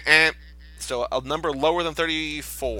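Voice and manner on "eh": harsh error buzz. Shown as a demonstration. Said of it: "make the noise on the Price is Right".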